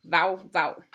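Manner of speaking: a short double dog woof; dog bark imitation. Shown as a demonstration. Teacher showing the German dog sound. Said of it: "the sound that the dog makes is".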